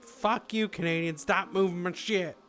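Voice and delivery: high-pitched pretend scolding; hammed-up fed-up housemate; mock outrage. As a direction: explode at the ghost in play. Acting out yelling at the ghost.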